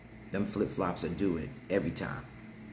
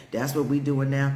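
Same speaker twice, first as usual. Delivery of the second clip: sassy retort; 4 semitones higher, 4 dB louder than usual. Retold or imitated. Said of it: "that sounds a little racist".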